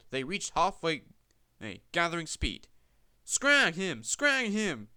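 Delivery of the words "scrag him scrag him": loud, higher gleeful yell. A narrator's reading. Runaway trucks yelling at Peter Sam, loud. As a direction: shout it like a gang of rough trucks. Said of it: "they yelled".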